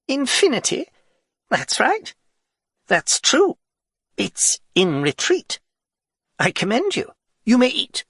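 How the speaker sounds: haughty king. Acted. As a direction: pass judgement from the throne. The king judges the poem.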